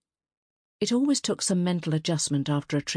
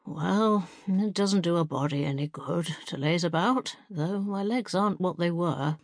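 put-on frail old lady.

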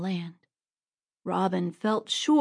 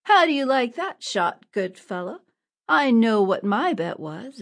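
gloating; 3 semitones higher, 5 dB louder than usual. Acted. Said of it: "Robin cried".

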